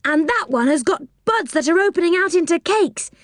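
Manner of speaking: put-on high, amazed child's voice; surprised calling out. A narrator's reading. Children discovering cake trees, calling out in high-pitched surprise. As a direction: exclaim at each new wonder, pitched well up. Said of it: "called out in surprise".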